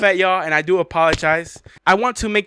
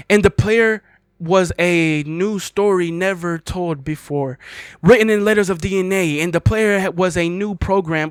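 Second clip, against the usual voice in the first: reading the poem aloud with mock gravity; dramatic poem reading. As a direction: recite it like a solemn prophecy. Reads the End Poem aloud.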